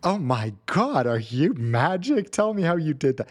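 lightly acted gushing awe; gushing American. American marveling at an airplane armrest trick, lightly gushing. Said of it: "In the U S, it would be like".

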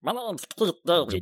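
high, loud, slow put-on voice; hammed-up actor impersonation pushed up high; Keith David. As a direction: belt it out slowly in a badly faked star voice. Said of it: "Can anyone do Keith David?".

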